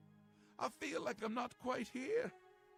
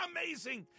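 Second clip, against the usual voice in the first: cackling excitement; 4 semitones higher than usual. Acted. Sheogorath cackles then exclaims.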